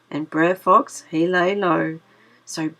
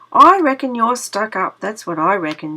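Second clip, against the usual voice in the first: louder huffy rabbit; a mild mock anger, louder at the start; getting mad; 2 semitones higher, 6 dB louder than usual. Brer Rabbit scolding the Tar Baby, mildly angry. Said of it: "getting mad".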